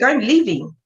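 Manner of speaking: put-on angry teen shout. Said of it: "So he's like".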